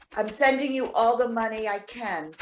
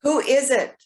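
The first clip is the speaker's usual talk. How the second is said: loud, higher call through the door; 3 semitones higher, 6 dB louder than usual. Acted. Marlena calling to someone at her door, loud. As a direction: call out to the knocker.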